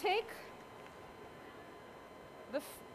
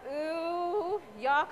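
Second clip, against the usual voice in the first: mock disgust; 4 semitones higher than usual. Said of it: "And I used to be like".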